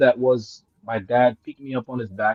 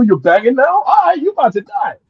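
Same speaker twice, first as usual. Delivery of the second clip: angry mother; 11 semitones higher, 6 dB louder than usual. Retold or imitated.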